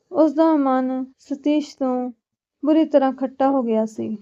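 measured storytelling read; story narration. A narrator's reading. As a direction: narrate a family drama, phrase by phrase. Reads a serial story aloud.

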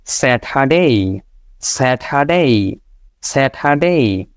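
slow স্যাটারডে ending ডেই; স্যাটারডে, no r, drawn out; right Saturday. Shown as a demonstration. Teacher reviews the correct form slowly. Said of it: "তাহলে কি আসলো এখানে".

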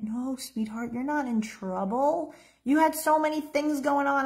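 gentle, soothing mother at the bedside; a loving mother calming her little girl; tender mother. Shown as a demonstration. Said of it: "I'm gonna demonstrate how this should have gone down for you".

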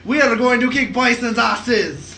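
mock French accent; imitating a French action hero. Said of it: "a French dude to play Guile with a French accent".

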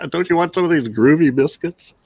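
put-on high, laughing old lady; sweet old lady voice. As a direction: chirp it like a dotty grandma. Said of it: "she was great too".

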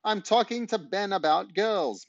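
Mum calling down to Dad, high mock shout; called out. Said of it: "Mum shouted back".

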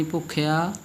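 ਭੁੱਖਿਆ ending in pure oral aa; no n colour on the end of ਭੁੱਖਿਆ; no nasal ending. Shown as a demonstration. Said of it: "ਬਿੰਦੀ ਨਹੀਂ ਲਾਉਣੀ".

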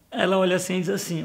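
ordinary talk, nothing marked

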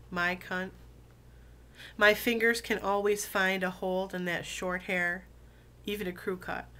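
deliberate, relishing poetry recital; spoken-word love poem, firmly phrased; poem reading. Acted. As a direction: savor each phrase, pausing between lines. Reads a poem aloud.

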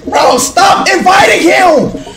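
high, laughing exasperated yelling; laughing shout. Real, not acted. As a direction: laugh while complaining. Friend keeps spamming invites.

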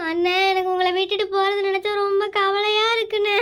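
tearful farewell to brother; crying. Acted. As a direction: speak through sobs, voice breaking. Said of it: "ஏங்கண்ணே நீ அழுகுற?".

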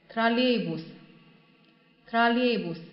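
троллейбус slow and clear; slow model pronunciation. Shown as a demonstration. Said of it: "teacher models the word slowly".

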